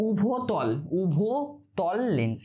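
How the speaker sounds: উভতল লেন্স drawn out very slowly; syllable by syllable. Shown as a demonstration. Teacher to students, slow dictation-style term drill. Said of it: "কি বলা হয় এটাকে?".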